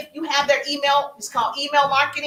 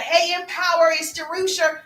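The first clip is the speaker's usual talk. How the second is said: cheerful greeting pitched higher; upbeat greeting; 4 semitones higher than usual. Shown as a demonstration. Coach demoing a friendly greeting on a follower's page, upbeat. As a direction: sound glad to see them. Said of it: "I'm gonna be like".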